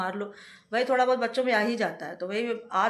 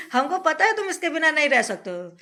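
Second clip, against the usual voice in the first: firm scolding; 4 semitones higher, 4 dB louder than usual. Real, not acted. Laying down rules to child.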